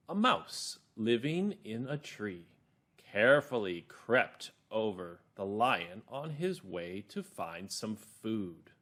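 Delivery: put-on slow storytelling for children; calm, clear narrator. Shown as a demonstration. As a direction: read it slowly and carefully, word by word. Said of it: "my narrator voice is calm and clear".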